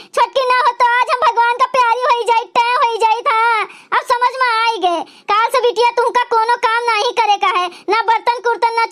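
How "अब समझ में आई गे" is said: tearful regret. Acted. Repentant aunt near tears.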